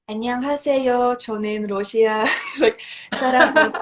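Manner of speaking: lightly voiced nervous first interview in Korean; clumsy beginner Korean. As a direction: rattle off the only Korean you know. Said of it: "and I say".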